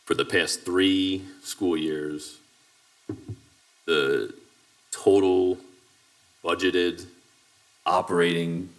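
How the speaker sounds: slow, deliberate, with long pauses between phrases; slow dictation. Real, not acted. Reading out a data request for the recording, slowly. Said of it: "I'll say it slowly".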